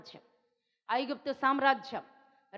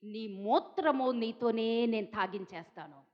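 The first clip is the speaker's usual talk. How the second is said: arrogant boast; 4 semitones lower than usual. Retold or imitated. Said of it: "ఎంత విర్రవీగుతున్నాడో".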